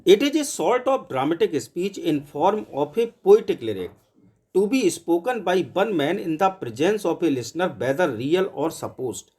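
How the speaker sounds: slow, even dictation of a definition; teacher dictating a note to students. Shown as a demonstration. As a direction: read it out slowly so students can copy it.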